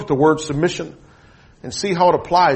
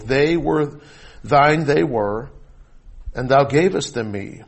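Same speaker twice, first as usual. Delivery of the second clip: measured, solemn Bible reading; formal pulpit reading; scripture reading. Acted. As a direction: proclaim the verses with weighty pauses, easing down at the ends. Reads scripture to congregation.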